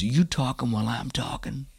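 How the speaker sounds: raspy whispered drill-sergeant menace. Retold or imitated. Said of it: "the drill sergeant walks up".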